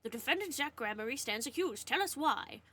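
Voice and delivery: lightly imitating the judge's announcement; quick retelling of the judge voice. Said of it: "I did his voice for".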